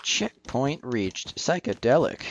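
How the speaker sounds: lightly voiced arcade game announcer, slow. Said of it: "the narrator of the game would always be like".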